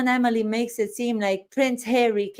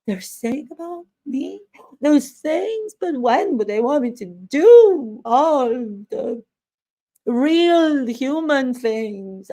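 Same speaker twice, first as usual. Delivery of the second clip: mock Duchess; 3 semitones higher than usual. A stranger in a coffee shop, as a mock caricature duchess. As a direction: ham up a wounded royal. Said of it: "somebody comes and says".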